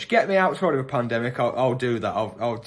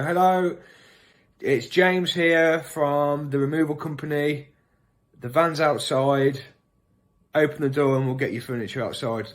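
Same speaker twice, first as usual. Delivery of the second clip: slow, deliberate put-on caller voice; fake removal man. Prank caller posing as removal company, slow put-on voice. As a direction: sound like a removal man at the door. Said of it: "I'd probably go".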